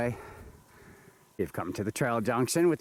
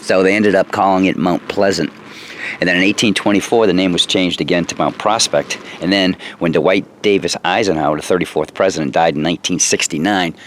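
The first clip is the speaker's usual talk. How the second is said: loud voice against the wind; shouting over wind; 9 dB louder than usual. Real, not acted. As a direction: project over the roaring wind. Windy summit, talking over wind.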